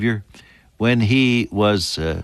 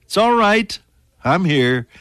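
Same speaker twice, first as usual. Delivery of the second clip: encouraging Jesus; 9 semitones higher than usual. Retold or imitated. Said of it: "he says to you".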